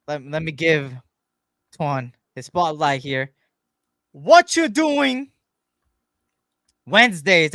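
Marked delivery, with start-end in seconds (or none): 4.1-7.5 high, drawn-out, loud catchphrase; loud singsong show-title shout; segment title call. Pretend.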